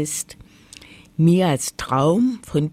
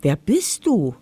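lightly voiced little sparrow, pitch hopping up; a hint of a peeping bird; chirping sparrow; 3 semitones higher, 3 dB louder than usual. A narrator's reading. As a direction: pipe it up like a small sparrow. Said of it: "piepste der Spatz".

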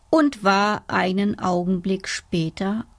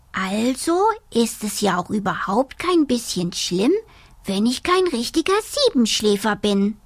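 little dormouse voice; 2 semitones higher than usual. Acted. Dormouse thinks aloud.

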